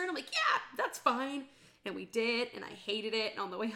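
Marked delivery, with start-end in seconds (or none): 0.3-1.4 slow, higher, louder fake okay; strained consent. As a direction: drag out an unconvincing yes. Unconvincing consent, retold.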